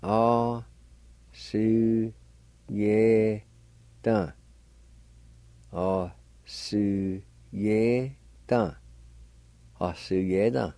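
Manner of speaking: "Ah, su, ye, dun" said as separate syllables; careful model of "Ah, su, ye, dun". Shown as a demonstration. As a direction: sound out "Ah, su, ye, dun" one beat at a time. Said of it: "Number five is chosen".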